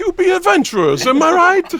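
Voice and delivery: put-on Italian accent. Voicing a character greeting adventurers: Italian accent. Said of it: "it could be an Italian accent if you like".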